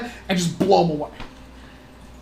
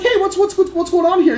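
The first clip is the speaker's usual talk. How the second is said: owner checking in; 8 semitones higher than usual. Retold or imitated. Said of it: "he's like".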